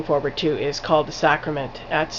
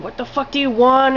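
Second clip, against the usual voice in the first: retold freaking out; 6 semitones higher than usual. Trapped woman yells at the killer on the beach, higher mock anger. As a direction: toss it off as a light mock outburst. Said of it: "she's still freaking out".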